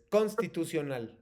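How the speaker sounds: "constitucional" with a strong first syllable CONS; "constitucional" said slowly as CÓNStitucional; stress on CONS. Shown as a demonstration. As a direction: hit CONS hard in "constitucional", let the rest fall. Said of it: "te las voy a pronunciar todas con el acento fuerte".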